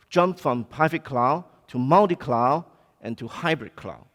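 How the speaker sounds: ordinary talk, nothing marked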